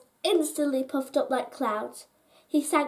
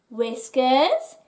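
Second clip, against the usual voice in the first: calling; 4 dB louder than usual. A narrator's reading. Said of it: "he called".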